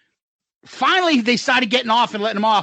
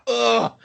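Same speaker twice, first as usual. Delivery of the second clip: imitated limp groan; 3 semitones higher than usual. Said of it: "dead weight".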